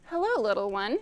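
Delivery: a touch of a soft cat purr. Acted. Cat greeting the startled little bird, purred softly. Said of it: "The cat purred softly and said".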